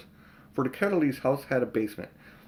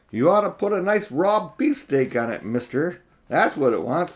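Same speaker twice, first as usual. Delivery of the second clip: put-on cheeky butcher's boy; 5 semitones higher, 4 dB louder than usual.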